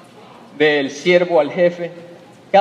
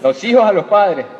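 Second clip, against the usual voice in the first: said again with more force and energy; with gusto; 3 dB louder than usual. Shown as a demonstration. Preacher repeats it with gusto for the congregation. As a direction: put real conviction into it. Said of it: "Dilo con ganas, pana".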